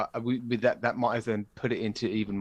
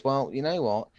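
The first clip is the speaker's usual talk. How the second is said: rising, booming banishment of a son; angry father king; 9 semitones higher than usual. Retold or imitated. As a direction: scold the son, building to high outrage. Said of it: "Dad goes".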